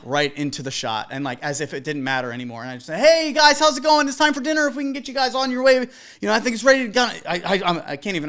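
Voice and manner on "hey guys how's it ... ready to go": upbeat friendly host. Retold or imitated. DJ politely tells couple to wrap.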